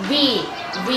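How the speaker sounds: V buzzed between lip and teeth; voiced V demo. Shown as a demonstration. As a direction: voice the V through a narrow gap. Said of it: "เพราะมันเป็นเสียงก้อง". (สาธิตเสียง V แบบเสียงก้อง)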